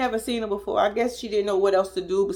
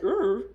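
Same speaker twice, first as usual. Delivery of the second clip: lightly imitated short growl; a small mock tiger growl. Woman copying the girlfriend's growl, mild tiger growl. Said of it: "you Tony the Tiger now".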